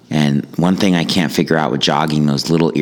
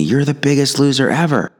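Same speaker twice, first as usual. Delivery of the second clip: put-on kid screaming insult; 10 semitones higher than usual. Kid in car screams at jogger, high mock yell. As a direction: jeer it like a bratty high school kid. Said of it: "the kid screams at me".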